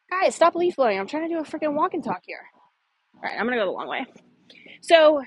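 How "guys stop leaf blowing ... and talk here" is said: raised voice over a leaf blower; yelling over leaf blower. Real, not acted. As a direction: call out over the noise. Shouting at leaf blower noise.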